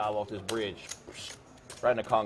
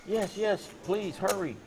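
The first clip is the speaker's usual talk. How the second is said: mock panicked blonde; 4 semitones higher, slower than usual. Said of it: "blonde calls nine one one".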